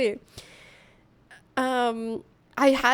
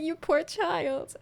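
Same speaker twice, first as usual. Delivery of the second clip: mock pity; 5 semitones higher, much slower than usual. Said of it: "I would be like".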